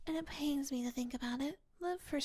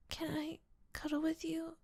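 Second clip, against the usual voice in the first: whispered ASMR roleplay. Acted. Girlfriend asks her partner to promise to stay, whispered. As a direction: whisper close to the ear, needy.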